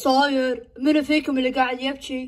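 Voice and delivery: low, eerie mother's voice; a stranger speaking through mom. Acted. Possessed mother asking who is crying, low and eerie.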